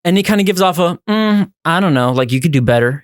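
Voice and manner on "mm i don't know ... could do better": acted lukewarm, hesitant judgment; unimpressed vibe. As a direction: let them know you're not won over. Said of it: "He gives off a vibe like that".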